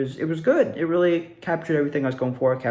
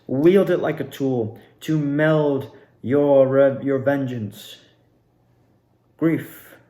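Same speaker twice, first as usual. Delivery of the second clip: villain monologue. Retold or imitated. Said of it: "And I was like".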